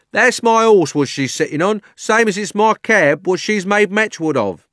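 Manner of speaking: high, loud London cabby; indignant cabby. Acted. Cabby complaining to the policeman, loud and indignant. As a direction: complain loudly in working-class London speech.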